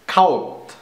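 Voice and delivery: cot read as "kowt"; German vowel in Kaut; Kaut, as if a German word; totally German. Shown as a demonstration. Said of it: "I'll pronounce them totally German".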